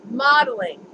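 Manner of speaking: talking while chewing gum. Real, not acted. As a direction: say it round a wad of gum. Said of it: "Pardon my gum".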